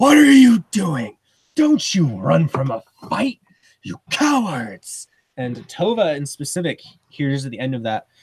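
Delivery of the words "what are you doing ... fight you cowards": shrill, swooping furious scream. Game master voicing a voice that screams in each player's head as they run, screaming voice. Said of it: "a voice screaming in your head".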